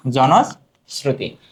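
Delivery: word stretched out in parts; slow dictation. Shown as a demonstration. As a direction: repeat it slowly for note-takers. Answer repeated slowly for students. (টেনে টেনে ধীরে বলা)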